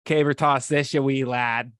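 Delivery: hammed-up amateur Scottish accent; attempted Scottish accent. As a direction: have a clumsy go at a Scottish brogue. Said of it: "I just do a Boston accent".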